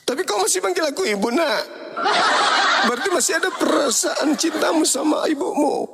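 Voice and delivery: mother pouncing on a slip of the tongue; teasing mother. Acted. Mother catches son calling her Ibu.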